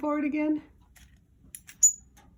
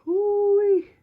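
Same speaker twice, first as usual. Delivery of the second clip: ooh-wee; 8 semitones higher, 9 dB louder than usual. Real, not acted. Delighted at bird's trick.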